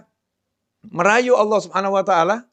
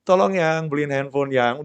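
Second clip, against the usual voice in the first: mild coaxing wife; 2 semitones lower than usual. Retold or imitated. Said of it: "ngerayu suaminya".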